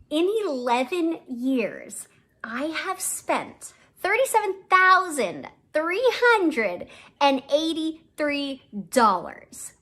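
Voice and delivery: building to a high, loud total; dramatic reveal. Real, not acted. Clip host revealing her grand total, high and loud. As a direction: announce the shocking sum with drama.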